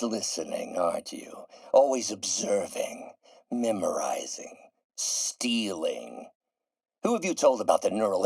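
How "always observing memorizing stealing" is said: bitter accusation. Acted.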